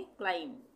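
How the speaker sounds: क्लाइम ending on M with no b; silent B. Shown as a demonstration. Teacher showing learners the silent B, क्लाइम ending on M. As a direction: say क्लाइम as "klime", lips closing on M. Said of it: "बी का उच्चारण नहीं होगा".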